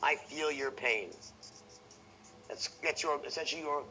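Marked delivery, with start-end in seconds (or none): 0.0-1.1 slow, sincere and caring; Bill Clinton tonality. Shown as a demonstration. Salesman soothing the prospect, slow and sincere. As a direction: draw it out like a politician who feels your pain. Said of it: "Bill Clinton tonality".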